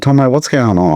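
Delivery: high, urgent, rattled; asking the butcher what happened, panicked; panicked question. Retold or imitated. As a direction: demand answers in a panic. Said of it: "I said".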